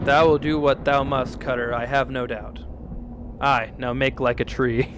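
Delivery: lightly voiced solemn talking tree; archaic tree voice. Streamer voicing a tree accusing the woodcutter, solemn. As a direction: speak like an old-fashioned forest spirit, grave.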